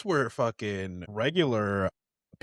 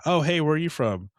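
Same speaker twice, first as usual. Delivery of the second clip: higher, louder mock-friendly stranger; casual greeting; 6 semitones higher, 5 dB louder than usual. Local greeting an American abroad, mock friendly. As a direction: chirp it like a nosy local.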